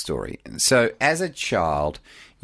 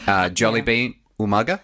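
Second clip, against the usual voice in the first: laughing; 2 semitones higher than usual. Real, not acted.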